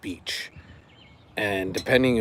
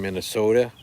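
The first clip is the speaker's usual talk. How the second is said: mock Minnesota accent. Shown as a demonstration. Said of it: "I said it that way on purpose".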